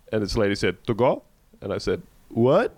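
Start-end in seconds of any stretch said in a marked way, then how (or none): 0.9-1.2 imitated Hispanic-accented TO GO; TO GO as one muddled word, lightly Hispanic. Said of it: "in a thick Hispanic accent". 2.3-2.8 puzzled, higher rising question; retold bewildered query; baffled. Acting out his repeated baffled question.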